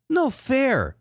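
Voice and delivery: very high whiny falsetto; Jake voice. Acted. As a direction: whine like a sore loser.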